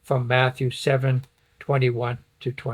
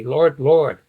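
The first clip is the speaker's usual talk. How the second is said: LORD, LORD hit hard and louder; emphatic Lord, Lord; 7 dB louder than usual. Acted. Jesus quoting false followers in rebuke, emphatic. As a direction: punch both words of "Lord, Lord". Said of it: "that's an emphasis. That's not a nice".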